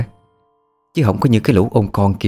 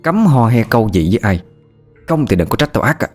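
threat; 3 semitones higher than usual. Acted. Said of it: "Phượng đánh mắng bọn trẻ".

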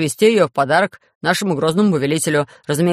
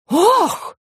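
very high outraged wail; shocked cry. Acted. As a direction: another noble cries out in shock. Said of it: "закричали вельможи".

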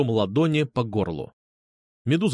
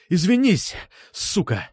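higher, forceful demand for an apology; angry demand; 6 semitones higher, slower than usual. A narrator's reading. Narrator forces classmate to apologise, angry demand. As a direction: demand it hard, biting off the order. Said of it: "потребовал, чтобы он извинился".

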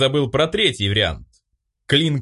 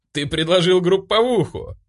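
gleeful prompt; 9 semitones higher than usual. Acted. Narrator gleefully prompts drunk Vlad mid-toast, excited. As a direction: cheerfully blurt out the reminder. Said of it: "радостно подсказал я".

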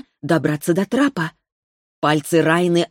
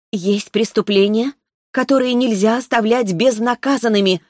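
measured words from a small avenging spirit; clipped girl's voice; 5 semitones higher than usual. Acted. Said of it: "отрывисто произнесла она".

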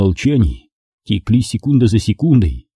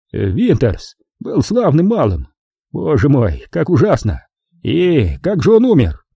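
nervous fake sympathy; 5 semitones higher than usual. Faking sympathy to killer.

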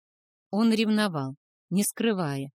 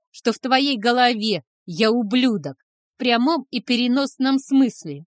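loud, higher hurt shouting; 3 semitones higher, 7 dB louder than usual. A narrator's reading. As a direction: scream out the grievance. Son shouts at father.

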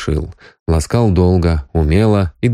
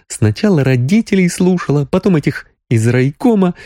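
higher Sonya voice, a touch of tears; young woman complaining; 9 semitones higher than usual. A narrator's reading. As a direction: complain about being misled.

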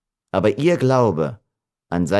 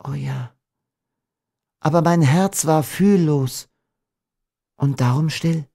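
higher, tender confession; 7 semitones higher than usual. A narrator's reading. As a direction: admit it lovingly. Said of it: "antwortete sie voll Zärtlichkeit".

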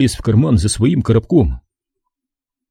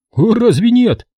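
higher, sly innocent ask; sly question; 13 semitones higher than usual. A narrator's reading. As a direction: play it coy and teasing. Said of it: "лукаво спросил Эванс".

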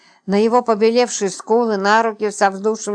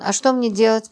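lightly squeaked question; a hint of a tearful squeak; mild squeak; 2 semitones higher than usual. Липочка tearfully asking Роман, faintly squeaky. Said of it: "пропищала Липочка".

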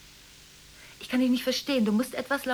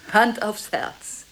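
slow oath; 6 dB louder, much slower than usual. Acted.

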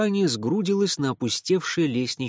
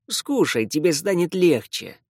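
rattled off; 4 semitones higher than usual. Acted. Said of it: "протараторил".

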